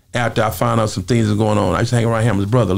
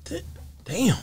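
stunned reaction; 8 dB quieter than usual. Retold or imitated. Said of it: "You be like".

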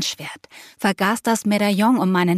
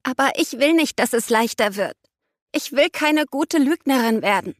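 higher, pained objection; pitched-up, unhappy insistence; distressed protest; 5 semitones higher than usual. A narrator's reading. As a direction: protest to the one comforting you.

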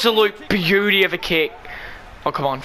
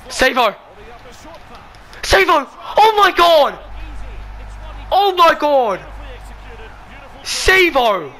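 screaming cheer; 7 semitones higher than usual. Real, not acted. Gamer screaming as his winger breaks away, ecstatic. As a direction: scream the name like a winning moment.

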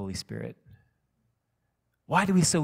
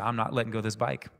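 calm voice; 3 dB quieter, faster than usual. Retold or imitated. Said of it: "in a calm voice like that".

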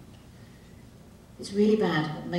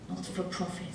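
softer sarcastic repeat of Not for profit; sarcastic undertone; 11 dB quieter than usual. Shown as a demonstration. Comic muttering Not for profit to the crowd with a soft sarcastic sneer. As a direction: drop the voice and sneer.

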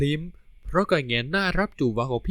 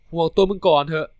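stern; 3 semitones higher, 4 dB louder than usual. Acted. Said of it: "พูดเสียงดุใส่เขา".

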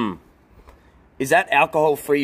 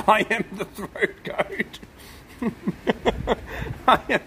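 laughing; 2 semitones higher, 3 dB quieter than usual. Real, not acted. Mock boast, laughing, slowed.

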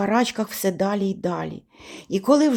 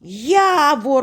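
louder, high, irritated call; роздратований крик; 5 semitones higher, 5 dB louder than usual. A narrator's reading. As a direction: call out with annoyance. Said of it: "роздратовано кричу я". (роздратовано й голосно гукнути)

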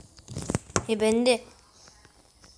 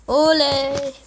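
high loud yay; cheering; 4 semitones higher, 8 dB louder than usual. Real, not acted. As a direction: cheer the win. Cheering a win.

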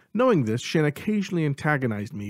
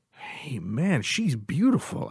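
sincere, slowing on beautiful; earnest; 4 semitones higher, much slower than usual. A narrator's reading. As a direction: say it and mean it. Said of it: "I said in earnest".

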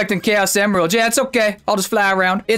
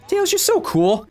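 gushing; 11 semitones higher, slower than usual. Real, not acted. Fawning over Tails character.

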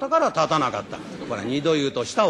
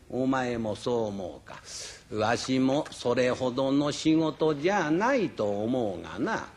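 put-on old master judging; 3 semitones lower, slower than usual. Jingoro judges the tiger. (名人がゆっくり低く評する)

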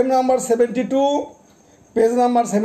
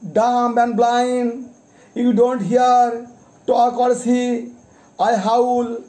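poem recitation. Acted. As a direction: recite it as a child begging its father, with a measured pause between each phrase. Recites poem as hungry child.

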